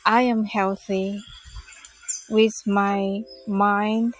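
slow, calm meditation voice; guided meditation. Acted. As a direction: gently guide listeners into calm. Leads a loving-kindness meditation.

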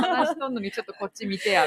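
laughing try at Hiroshima dialect; imitated Hiroshima dialect. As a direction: playfully mimic a Hiroshima girlfriend's complaint. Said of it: "自分が今ちょっと彼氏になった気分". (笑いながら広島弁の真似)

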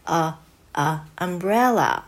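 slow, separate lax a, a, then umbrella; short U phonics sound. Shown as a demonstration. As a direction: model the loose first vowel of umbrella in a. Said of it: "脱力のあ".

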